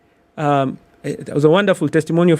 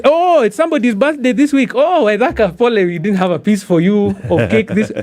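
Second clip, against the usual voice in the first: lightly acted, higher-pitched coworkers; mock office colleagues; 4 semitones higher than usual. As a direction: imitate coworkers offering playful mock sympathy. Colleagues teasing him about office cake.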